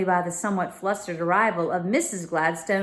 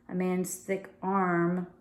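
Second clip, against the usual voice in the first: slow, puzzled reread; 5 dB quieter, slower than usual. Real, not acted. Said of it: "That's what it says".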